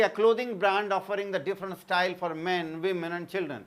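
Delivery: very slow, evenly spaced words for note-taking; teacher dictating notes word by word; slow dictation. Acted. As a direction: read it out slowly so students can write. Reads English example as dictation.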